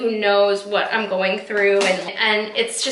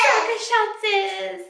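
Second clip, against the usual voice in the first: high, slow, tearful voice breaking; words breaking into a sob; crying; 11 semitones higher, slower than usual. Real, not acted. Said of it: "makes me really emotional".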